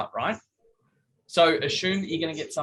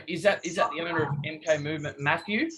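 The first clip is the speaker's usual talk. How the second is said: too formal. Shown as a demonstration. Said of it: "if you make it too formal".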